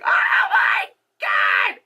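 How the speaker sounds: drawn-out, strained mock agony; slow hammed-up exasperation; exasperated groan. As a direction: groan it out, fed up. Exasperated reaction to chatty moviegoers.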